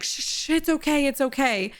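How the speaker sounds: soothing shush. Retold or imitated. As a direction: hush the kid gently, it's okay. Parent soothing a crying kid.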